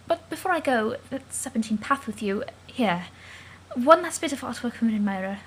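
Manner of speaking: put-on quiet, formal, gentle alien girl; soft Calliope voice. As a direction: speak softly and carefully, like a shy troll.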